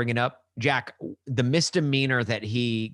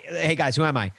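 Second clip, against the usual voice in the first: a light mock Canadian accent, a bit louder; 2 semitones higher, 4 dB louder than usual. To co-host, goofing in a mock Canadian accent. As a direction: play a jokey Canadian voice saying hey guys. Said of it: "You sound like a Canadian".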